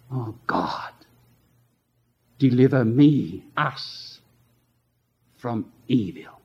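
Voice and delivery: a low, hushed plea for deliverance; hushed prayer. Shown as a demonstration. Preacher showing the congregation how to pray, hushed plea. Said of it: "learn to pray".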